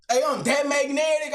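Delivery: hyping himself up to ChatGPT with a shouted brag. Retold or imitated. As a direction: belt it out like a show-off. Texting ChatGPT, bragging.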